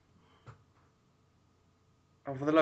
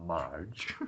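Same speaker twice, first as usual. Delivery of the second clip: quiet through teeth; 6 semitones lower, 13 dB quieter than usual. Retold or imitated. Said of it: "the way he just goes".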